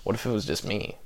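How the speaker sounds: a weak take on Bill Hader; Bill Hader impression. Telling friends how Bill Hader pitched the show, badly imitated. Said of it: "That's my Bill Hader impression right there".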